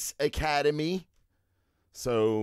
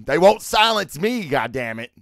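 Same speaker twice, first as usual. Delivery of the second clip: mock defiance; 2 semitones higher, 6 dB louder than usual. Host jokes about being silenced, mock defiant. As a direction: ham up being a martyr.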